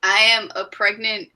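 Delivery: normal talking voice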